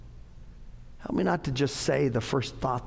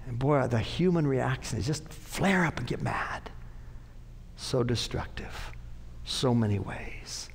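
hushed aside; 4 dB quieter than usual. Acted. Preacher drops to a whisper.

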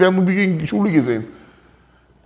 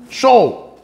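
loud demo blessing; 2 semitones higher, 6 dB louder than usual. Retold or imitated. Rav demonstrating loud bracha.

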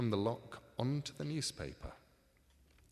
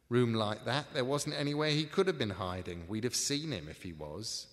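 gruff crook voice; 3 semitones higher, 7 dB louder than usual. Acted. A crook talking through the door.

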